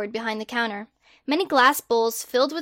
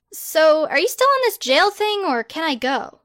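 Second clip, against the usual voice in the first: higher, exasperated protest; indignant girl; 4 semitones higher, 4 dB louder than usual. Acted. Hermione protesting her arrest to Harry, higher and indignant. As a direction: push back in disbelief.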